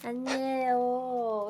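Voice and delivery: slow denial through a mouthful; mouth full. Real, not acted. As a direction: talk around food in mouth. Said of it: "지금도 먹네".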